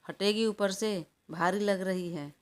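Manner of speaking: half-hearted cry to get off him; mild mock yell. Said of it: "अखिल ने चीख कर कहा". (हल्की सी चीख)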